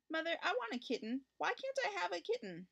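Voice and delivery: put-on a little boy nagging his mother for a kitten; small boy begging. A narrator's reading. Richard begs his mother for a kitten, high and pleading. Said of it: "every day he said to his mother".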